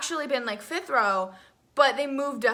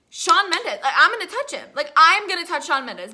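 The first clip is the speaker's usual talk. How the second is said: starstruck panic; 3 semitones higher, 6 dB louder than usual. Retold or imitated. Fan about to touch her idol, starstruck panic.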